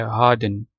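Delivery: "हार्डन" as "haa-dn", without the R; British-style "हार्डन" with no R sound; हार्डन, silent R. Shown as a demonstration. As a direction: drop the R in "हार्डन", long "aa". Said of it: "इसमें भी आर silent है".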